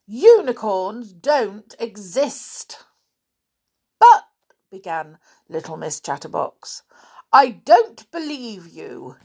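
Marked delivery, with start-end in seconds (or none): 0.1-2.8 slow, emphatic contradiction; stubborn denial. Acted. Stubborn listener contradicting her chatterbox friend, emphatic. 4.0-4.3 high, loud cut-off squeak; protesting. Acted. Chatterbox trying to get a word in, protesting. 7.3-9.2 higher, louder firm cut-in; stubborn interruption. Acted. Stubborn listener interrupting her friend, firm. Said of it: "interrupted little Miss Stubborn".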